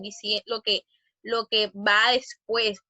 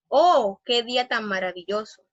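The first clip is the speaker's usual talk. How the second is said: exclamation demo; 3 dB louder than usual. Shown as a demonstration. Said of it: "oraciones que denotan exclamación, admiración".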